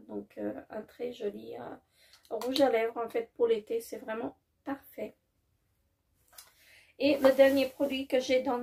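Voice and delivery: usual speaking voice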